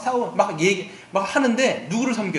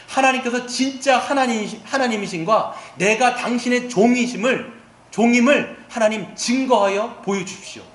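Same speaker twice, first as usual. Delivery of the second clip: raised, earnest plea in a retold prayer; crying out to God; 4 semitones higher than usual. Elijah begging God to prove himself, crying out. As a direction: imitate a prophet calling on God, moderately lifted. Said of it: "여호와 하나님께 부르짖는 거예요".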